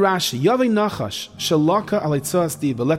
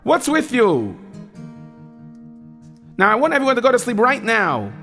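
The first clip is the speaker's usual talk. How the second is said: stern, raised scolding, higher; 5 semitones higher than usual. Acted. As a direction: let them know you're disappointed. Counselor scolds the bunk.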